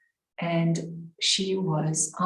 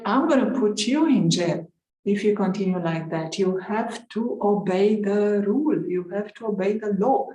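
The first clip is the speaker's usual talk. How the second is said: mildly acted angry judge, louder; a retold threat from the bench, firm and raised; 2 semitones higher, 5 dB louder than usual. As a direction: judge threatening Radhe with jail, a touch angry. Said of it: "the judge got really angry".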